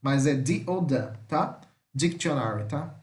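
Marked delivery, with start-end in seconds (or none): 0.3-1.1 slowly, first "the" as dee, second "the" as duh; slow demonstration of "the" as dee or duh; pronounced with D. Shown as a demonstration. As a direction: give "the" a hard D both times, dee then duh. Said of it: "vai falar com som de D".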